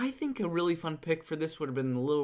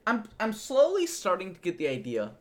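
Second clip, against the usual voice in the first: ordinary talk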